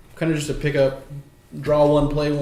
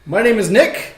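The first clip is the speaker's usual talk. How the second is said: spooky voice; 4 semitones higher than usual. Acted. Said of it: "that spooky voice".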